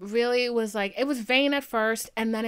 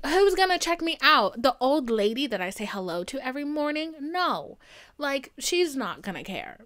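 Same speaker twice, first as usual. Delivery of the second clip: higher and louder, dramatic complaint; mock-outraged rant about no admirers; exasperated rant; 4 semitones higher, 5 dB louder than usual. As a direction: whine it out loud to yourself. Inner complaint at the gym.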